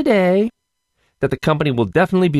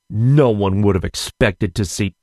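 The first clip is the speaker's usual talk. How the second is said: mocking repeat; 5 semitones lower than usual. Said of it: "repeats the quote mockingly".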